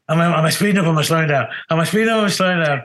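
high, anxious self-questioning; retold panic. Hungover drummer doubting his tempo onstage, high mock-panicked fretting. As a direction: act out mounting doubt, pitch jumping up on each question. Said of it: "And that panic setting".

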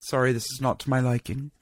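polite, even-toned mock verdict; matter-of-fact judge. Judge letting a baker down, imitated matter-of-factly. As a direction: imitate an unfazed judge, lightly voiced. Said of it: "judges are very matter of fact".

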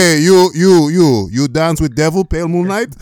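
alto e provocador como o Coringa, mas russo; Coringa com sotaque russo. Pretend. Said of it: "Michael Keaton".

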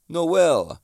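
a quick, lightly put-on Italian accent calling Noel; bad Italian accent. Restaurant friend calling out to Noel, hint of a bad Italian accent. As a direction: call his name like a hammed-up Italian restaurateur. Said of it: "my bad Italian accent".

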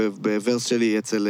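ordinary delivery

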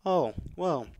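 mock customer-service apology, read off a script. Agent apologising to an angry customer, as if reading from a script. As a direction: recite the apology by rote. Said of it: "like, reading from a script".

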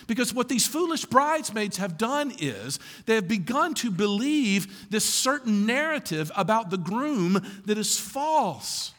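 ordinary talk

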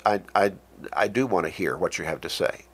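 soft, low and sincere; quiet, earnest reassurance; respectful, loving. Shown as a demonstration. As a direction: gently show willingness to listen. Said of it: "respectful tone, a tone that says".

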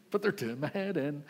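mock exasperated parent; fed-up parent. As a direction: vent about the family, hammed up. Frazzled parent at Christmas.

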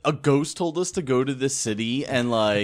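loud, high-pitched comic disbelief; incredulous outburst. Real, not acted. Player questioning the party's killing spree, incredulous.

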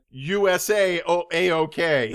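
hint of a put-on Asian accent; a quick, hammy Asian accent, half laughing. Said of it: "Wait till you hear my Asian accent".

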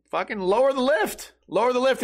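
high-pitched imitation of a coworker calling out; impatient coworker. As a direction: mimic an employee urging someone on. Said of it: "other Home Depot employee is like".

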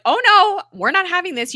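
loud, high "oh no" of protest; hammed-up dismay, high and forceful; mock alarmed protest. Retelling a character's urgent refusal.

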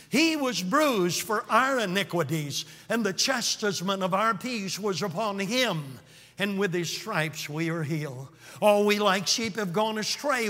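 measured, solemn Bible reading; scripture reading. Acted. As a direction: read the prophecy with reverence. Continues reading Isaiah 53.

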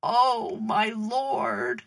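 understated narrated cry to God; restrained acted outcry; shouting out. A narrator's reading. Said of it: "Dirk shouted out".

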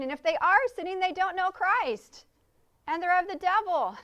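emphatic quote. Retold or imitated. Preacher voicing John's harsh verdict.

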